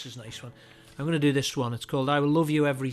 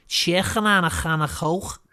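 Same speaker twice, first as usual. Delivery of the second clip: mock Scouse accent. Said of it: "he's got the Scouse accent down".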